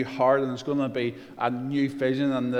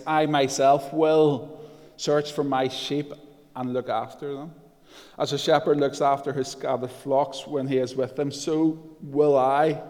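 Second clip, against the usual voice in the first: emphatic scripture reading. Acted. Preacher reading God's promises to congregation, emphatic. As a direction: declaim it, leaning on each "I will".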